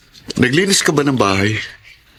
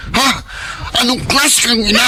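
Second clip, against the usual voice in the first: mataas at galit na tanong; 10 semitones higher than usual. Acted. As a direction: sumbatan nang pasigaw. Galit na asawa, pagtatalo. (galit na asawang lalaki, sinusumbatan ang ina)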